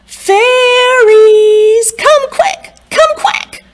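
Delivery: high, loud urgent holler. A narrator's reading. Old woman tricks the fairies out, hollering high and loud. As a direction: call them out in a rush. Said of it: "And she said".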